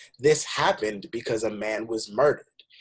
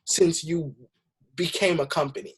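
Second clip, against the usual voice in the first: louder, higher, fired-up rebuke; indignant retort; 4 semitones higher, 4 dB louder than usual. Real, not acted. Answering a McDonald's ad that claims to care, indignant. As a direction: call the company out, voice raised.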